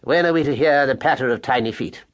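a hint of a genteel Oxford mouse; cultured husband mouse. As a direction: ask gently like a learned gentleman. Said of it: "he said".

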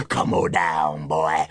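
a monster coaxing its prey; slow low growl of the hairy man; menacing monster. Acted. Hairy Man lures Wally again.

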